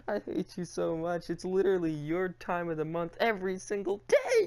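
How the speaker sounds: usual speaking voice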